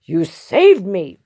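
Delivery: mildly emotional exclamation; a touch of amazed relief; grateful cry. Acted. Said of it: "Big Bark cried".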